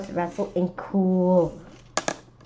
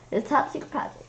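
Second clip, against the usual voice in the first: whispered secret; 5 semitones higher, 7 dB quieter than usual. Acted. Confiding a secret.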